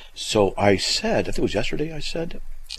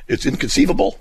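lightly performed catchphrase, pitched up; movie quote; 8 semitones higher than usual. Acted. Host quoting Princess Bride to Charlie, lightly hammed-up. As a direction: quote the film line with a higher lift at the end. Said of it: "Princess Bride".

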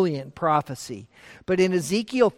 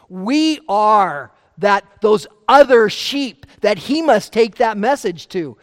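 fervent preaching; 6 dB louder than usual. Real, not acted. Preacher rises in fervor.

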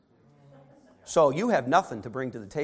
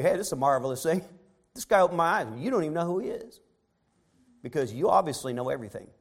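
mocking. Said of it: "He's mocking them".

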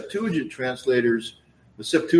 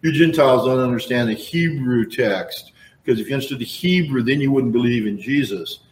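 dismissive retort; 3 dB louder than usual. Retold or imitated. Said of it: "just said".

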